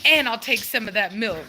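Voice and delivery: voicing the puppy through laughter; laughing puppy voice. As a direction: laugh while speaking for the pup. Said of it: "She says".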